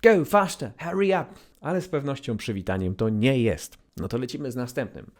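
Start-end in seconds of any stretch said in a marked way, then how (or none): 0.0-1.2 higher, louder hurry-along; impatient urging. Retold or imitated. Teacher imitating someone rushing you along. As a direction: push them to move faster. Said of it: "Pośpiesz się, idź bardziej do przodu".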